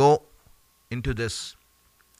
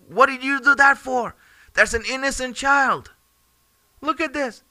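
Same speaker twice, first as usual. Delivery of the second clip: horrified outcry; 9 semitones higher than usual. Retold or imitated. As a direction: cry out in disbelief. Musa horrified at the child's killing.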